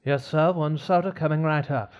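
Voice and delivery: lightly put-on fancy attendant; courteous, fancy flight attendant voice. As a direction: serve it up with a touch of fancy. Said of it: "That's a fancy voice".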